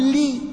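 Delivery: "لي" with a thin, light lam. Shown as a demonstration. Teacher demonstrates the light lam with kasra. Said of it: "ونقول".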